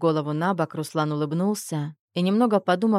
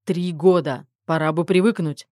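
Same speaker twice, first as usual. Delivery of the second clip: reproachful; 3 dB louder than usual. Acted. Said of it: "с укором произнёс".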